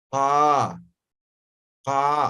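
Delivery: "Ah" from deep in the throat, low; teacher shows "ah" at the back of the throat; throat sound demo. Shown as a demonstration. Teacher demonstrating the throat sound, low. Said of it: "desde la garganta aquí".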